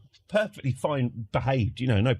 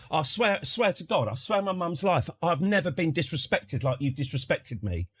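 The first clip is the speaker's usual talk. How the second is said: imitated berating; 3 semitones higher than usual. Dad swearing to the barman he was disrespected, indignant. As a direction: swear it like a wronged customer. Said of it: "this sort of berating".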